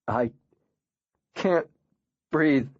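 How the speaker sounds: high, breaking cry of panic; gasping can't breathe; panicked gasp. Acted. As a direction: choke it out, hyperventilating. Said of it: "starts sobbing".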